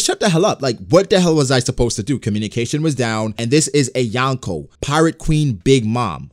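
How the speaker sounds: an over-the-top Queen blowing up; hammed-up furious commander; yelling Queen. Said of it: "or let me relax".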